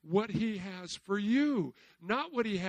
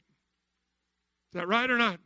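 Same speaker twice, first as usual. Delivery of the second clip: slow demand; 4 dB louder, much slower than usual. Real, not acted. Preacher demands answer slowly.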